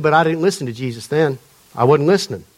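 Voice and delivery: lightly imitated Atlanta man; attempted Atlanta accent. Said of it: "he's telling the story in his accent".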